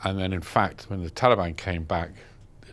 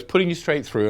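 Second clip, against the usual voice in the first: operator; 8 semitones higher than usual. Retold or imitated. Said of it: "She goes".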